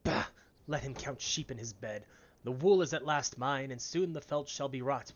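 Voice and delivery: slow, loud hammy villain miller; slow theatrical villain menace. Acted. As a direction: ham up a scheming villain, slow and booming. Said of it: "I gave you a voice that sounded like a villain".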